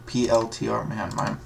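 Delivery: tongue tripping over slurred words; slurred speech. Real, not acted. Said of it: "I sound like a drunk right now".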